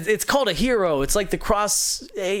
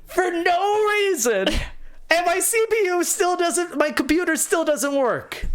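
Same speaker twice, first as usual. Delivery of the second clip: climbing higher to a laughing wail; despairing rant; 8 semitones higher than usual. Retold or imitated. Builder realizing he spent seven hundred dollars for nothing. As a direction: spiral from shock into hysterical despair. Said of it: "I'm like".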